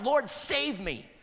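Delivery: slow, drawn-out pleading prayer; slow plea. Shown as a demonstration. Pastor modelling the cry for the congregation, slow pleading. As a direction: stretch each word as a plea. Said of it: "you need to cry out".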